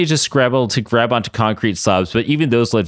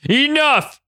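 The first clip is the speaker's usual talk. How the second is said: commanding; 14 semitones higher than usual. Acted. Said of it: "Apocalypse said".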